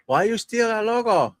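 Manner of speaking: high, lightly put-on Asian accent; mock accent, accusing the streamer of stealing the logo. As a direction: imitate an accusing Asian businessman, a bit high. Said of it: "No offense to the Asians".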